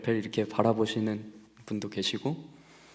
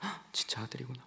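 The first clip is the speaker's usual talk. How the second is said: shocked whisper; 15 dB quieter, faster than usual. Retold or imitated. Mother realising it's her son, whispered. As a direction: gasp and whisper in disbelief.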